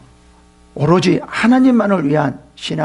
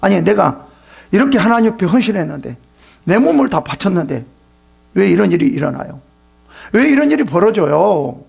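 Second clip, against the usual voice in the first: mock complaining; 3 semitones higher than usual. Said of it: "사탄은 뭐라고 말하냐면 다 원망하고 불평합니다".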